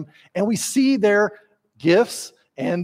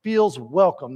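brisk, high-pitched bossy orders; bossy host; 6 semitones higher than usual. Acted. Preacher voicing Martha bossing the household, brisk. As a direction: rattle off chores like a busy host.

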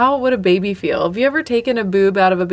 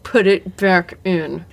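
put-on baby's demand; slower than usual. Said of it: "Just, like".

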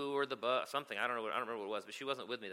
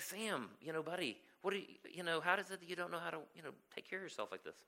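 higher, hesitant, careful questioning; retold gentle coaxing; 6 semitones higher, 3 dB quieter than usual. Carer to five-year-old at bathroom door, retold gentle coaxing. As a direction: tactfully coax a little kid.

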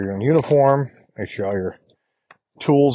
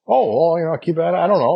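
unsure customer; 6 semitones higher than usual. Retold or imitated. Customer unsure about thermostat setting.

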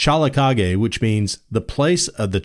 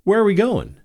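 Yankee voice; 10 semitones higher than usual. Acted. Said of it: "and the Yankee said".

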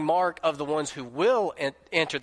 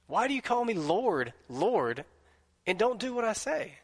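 pleading echo; 6 semitones higher than usual. Shown as a demonstration. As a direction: ask it again as if Jesus is pleading. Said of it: "preacher repeats Jesus' question".

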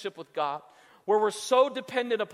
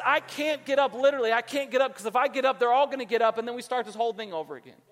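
raised, hurried protest; exasperated refusal; 3 semitones higher, faster than usual. Acted. Parent refusing to get up for a friend, exasperated. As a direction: plead exasperatedly to be left in bed.

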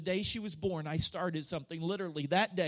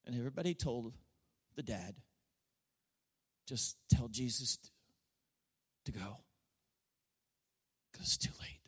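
much softer, lower, sinking to a whisper; hushed storytelling; 10 semitones lower, 7 dB quieter, faster than usual. Acted. Preacher telling Jesus raising the girl, hushed. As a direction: draw them in with a near whisper.

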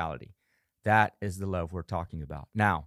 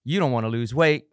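harsh self-talk; 3 semitones higher, 4 dB louder than usual. Pretend. Self-critic after the first missed workout, mock scolding. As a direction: tear into yourself. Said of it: "you're saying all these things to yourself".

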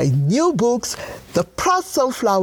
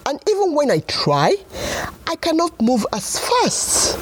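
fussy parrot. Acted. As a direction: get squeakier as the complaint builds. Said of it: "said the parrot".

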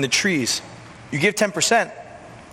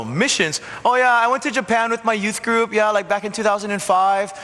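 churchy churchgoer; 5 semitones higher than usual. Retold or imitated. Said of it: "some of you with a churchy background go".

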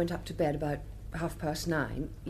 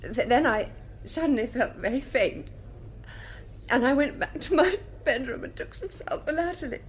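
on the verge of tears; 5 semitones higher than usual. Acted. Lady Mary testifying to the court, starting to break down. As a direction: fight a breakdown while giving evidence.

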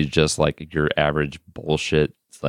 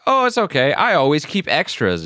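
much higher, breezy reassuring voice; imitating Leslie; 8 semitones higher than usual. Leslie reassures Yellow Guy about the puppet, high sweet voice. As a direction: wave it off sweetly. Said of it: "And she's like".

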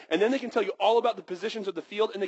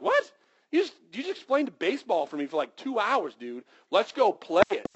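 mock disbelief; 3 semitones higher than usual. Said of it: "You're like".

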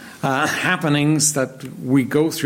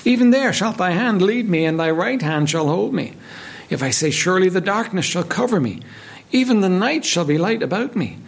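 solemn, measured Bible reading; scripture reading; 2 semitones higher than usual. Acted. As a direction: read the psalm with reverence. Reads psalm aloud in sermon.

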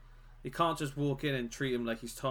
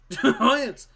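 loud laughing callout; 10 semitones higher, 12 dB louder than usual. Pretend. Hinting another team, fake cough bit.

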